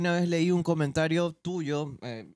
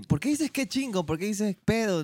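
mock complaint; 6 semitones higher than usual. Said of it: "me dice".

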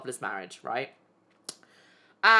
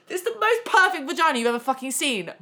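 laughing; 7 semitones higher, 4 dB louder than usual. Real, not acted. Laughing while describing the shock.

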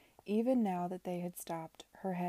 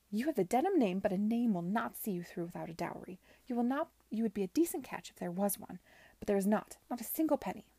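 angry; 3 semitones higher, 5 dB louder than usual. Acted. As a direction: lay down the law furiously. Aunt furiously cutting off dowry.

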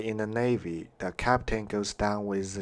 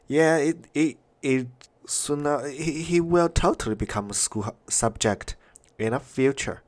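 excited; 5 semitones higher than usual. Real, not acted. Excited answer to question.

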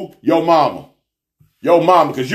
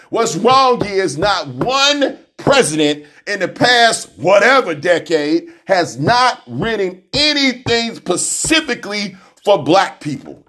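usual speaking voice

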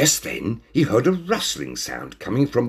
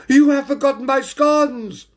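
high, loud outraged shout; Lady Priscilla Perfect; 5 dB louder than usual. A narrator's reading. Lady customer scolds the waiter, shouting shrilly. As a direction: shout it out as an indignant grand lady. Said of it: "Lady Priscilla Perfect shouted out".

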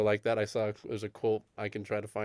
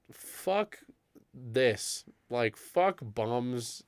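slow, drawn-out exasperated swearing; fed up; 3 dB quieter, much slower than usual. Retold or imitated. Manager after the man finally runs out, fed up. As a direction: stretch each word in weary disgust.

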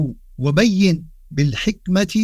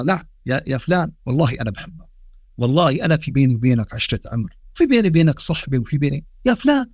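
lower, gentle and affectionate; tender pleading; 3 semitones lower than usual. Retold or imitated. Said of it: "لاحظوا الرقة". (بنبرة رقيقة وحنونة)

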